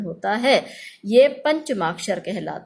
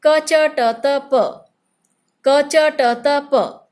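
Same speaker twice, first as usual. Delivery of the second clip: each letter called out louder, for class to repeat; louder teaching recital; 3 semitones higher, 5 dB louder, much slower than usual. Shown as a demonstration. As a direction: call out each letter clearly for the children. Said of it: "मैं एक बार बोलती हूँ और आप मेरे पीछे बोलकर". (कक्षा को दोहराने के लिए ज़ोर से बोलना)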